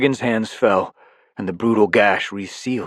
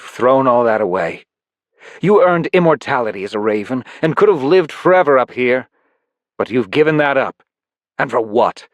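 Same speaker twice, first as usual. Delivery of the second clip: higher and louder reproach; frustrated villain; 5 semitones higher, 6 dB louder than usual. Acted. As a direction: let the admiration sour. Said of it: "soured into frustration".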